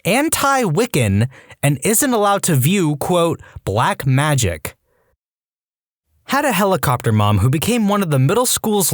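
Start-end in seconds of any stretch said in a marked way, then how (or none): 0.0-4.7 mock quoting. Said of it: "and I quote".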